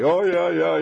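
sarcastic yeah. Retold or imitated. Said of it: "they'll say".

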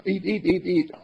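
put-on high childish demand. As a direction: beg like a toddler.

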